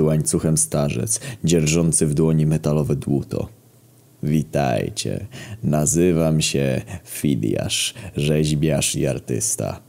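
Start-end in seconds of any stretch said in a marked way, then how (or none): 4.2-9.8 put-on old sculptor. Old chained sculptor introduces himself.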